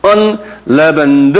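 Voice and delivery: "unleavened" sounded out slowly; drawn-out "unleavened" for learners to copy; pronunciation demo. Shown as a demonstration. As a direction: model "unleavened" slowly in separate syllables. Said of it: "한번 발음해봐".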